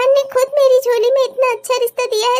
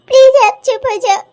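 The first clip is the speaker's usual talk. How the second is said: tearful plea; 6 dB louder than usual. Acted. Daughter gives in, tearful.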